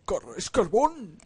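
loud, high whoop with stretched word; excited shout. Real, not acted. Player finding coal at last, excited drawn-out shout. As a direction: shout the discovery, swooping high and slow.

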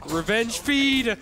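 slow, loud, high shout of revenge; drawn-out battle cry. Acted. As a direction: stretch the words out like a war cry. Gleeful battle cry in game.

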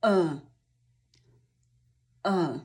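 E as an isolated, dull "uh"; low frog vowel. Shown as a demonstration. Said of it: "musi obniżyć się nisko w dół".

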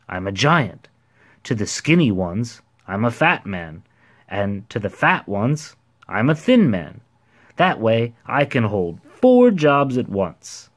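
lightly voiced character, lively and emphatic; self-assured ordinary man, explaining. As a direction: explain with punched key words.

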